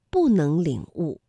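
"不" falling as bù before 能; 不 in fourth tone. Shown as a demonstration. Teacher shows learners the rule, "不" falling bù. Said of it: "所以不在这里读四声".

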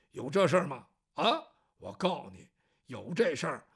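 rough and ready to pounce; gruff hothead. Acted. 赵虎听了发火. (赵虎粗声粗气地发狠)

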